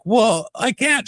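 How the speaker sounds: high, slow mock whine; mock refusal. Mimicking a cast member's refusal in a high voice. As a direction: drag out a squeaky refusal. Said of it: "she's like".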